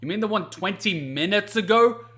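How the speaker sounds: sarcastic. Retold or imitated. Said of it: "I'm like".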